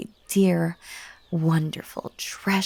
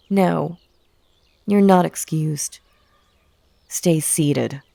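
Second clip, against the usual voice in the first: cold command; 3 semitones lower, 4 dB louder than usual. Acted. Villain forbidding his guest to leave, stern and loud. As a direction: lower and louder, stern orders. Villain orders listener to stay.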